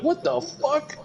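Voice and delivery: high-pitched incredulous imitation; mock disbelief. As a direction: imitate someone baffled and appalled. Retold disbelief in movie.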